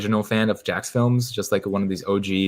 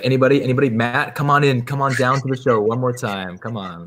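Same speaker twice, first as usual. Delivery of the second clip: game show host; 4 semitones higher than usual. Acted. Streamer calling Matt down to the show, game show host.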